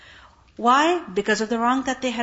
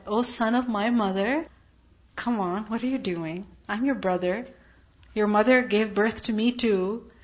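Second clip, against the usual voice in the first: softer, calm pleading; very calmly; 2 semitones lower, 3 dB quieter than usual. Retold or imitated. Harun calming his furious brother, softly and calmly. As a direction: soothe an angry brother gently. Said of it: "very calmly".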